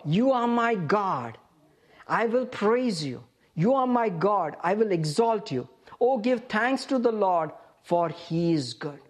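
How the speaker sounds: slow, measured declaration of praise; congregation's response. Acted. Preacher models the congregation's response, slow declaration of praise. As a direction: draw out each phrase of the response. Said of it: "your response is the next verse".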